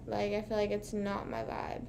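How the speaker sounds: whispered, trailing inner doubt; hushed admission, nearly no voice. Retold or imitated. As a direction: breathe it like a private confession. Retold inner thought, hushed.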